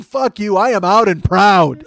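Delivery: high, loud, laughing boast; defiant glee. Retold or imitated. Shirtless guy taunting the hallway crowd, high gleeful boast. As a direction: brag like a proud exhibitionist. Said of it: "Now I'm like".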